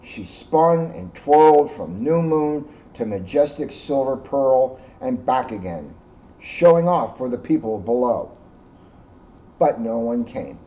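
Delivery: gentle read-aloud storytelling; story narration. A narrator's reading. Reading the moon story to the children, storyteller voice. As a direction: tell it like a bedtime story to kids. Reads picture book to children.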